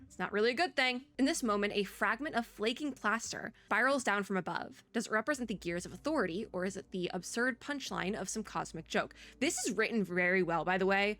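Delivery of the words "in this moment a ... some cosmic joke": measured reading of philosophical game text; storyteller posing a grave question; story narration. Acted. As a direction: narrate it like a literary passage. Reads game's story text aloud.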